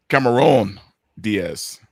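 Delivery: put-on light Latino accent on the name. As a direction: say it like a Latino friend would. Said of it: "in a very heavy Latino accent".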